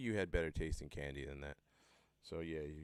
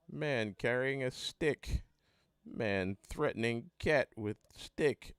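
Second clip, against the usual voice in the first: high, drawn-out mock alert announcements; mock alert reader; 6 semitones higher, 6 dB louder, much slower than usual. To the audience, reading Philly app alerts as a mock dramatic announcer. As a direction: read the alerts like a dramatic siren list. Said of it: "they'd be like".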